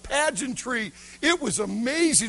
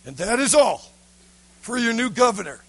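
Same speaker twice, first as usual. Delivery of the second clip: demanding governor. Acted. Governor unsatisfied with the boy's gifts, demanding. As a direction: press the boy with a raised voice.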